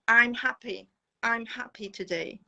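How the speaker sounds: "I'm" as one syllable flowing into "happy"; spoken short form "I'm" in a model sentence; contracted "I'm". Shown as a demonstration. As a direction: link the short "I'm" straight onto "happy". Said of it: "very often we use shortened words".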